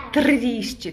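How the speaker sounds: "Triste" with the r vibrated after the T; "Triste" showing off the tongue vibration of its r; vibrating r. Shown as a demonstration. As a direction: roll the r in "Triste". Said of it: "Tem essa vibração também".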